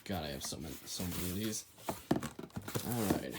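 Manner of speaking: breathless after lifting; quiet and winded from the box; carrying heavy load. Real, not acted. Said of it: "this is heavy".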